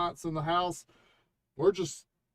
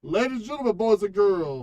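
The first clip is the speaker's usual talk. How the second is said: grand entrance announcement; 3 semitones higher, 6 dB louder than usual. Pretend. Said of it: "You're so unprofessional".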